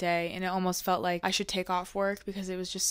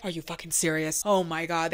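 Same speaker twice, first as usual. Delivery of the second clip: lower, exasperated grumble; mock angry firemen; 4 semitones lower than usual. Firemen furious at a wasted call, mock exasperated. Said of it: "And they are angry".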